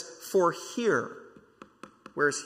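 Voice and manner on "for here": "for here" drawn out slowly; slow emphatic reading. Real, not acted. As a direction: read it slowly so "here" lands. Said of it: "I really wanna read this slow".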